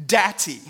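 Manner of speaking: Datty said with a hard T sound twice, in a light mock British style; Datty with two T's. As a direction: say Datty, crisp T, T. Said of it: "like, two T's".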